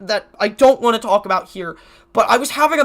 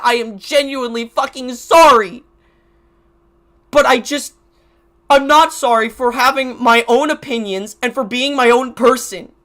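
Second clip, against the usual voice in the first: loud and emotional; 5 dB louder than usual. Real, not acted. Emotional defiant rant.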